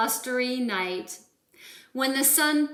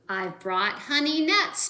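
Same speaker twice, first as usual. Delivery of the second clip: grinning badger; 4 semitones higher, 4 dB louder than usual. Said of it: "Badger says with a grin".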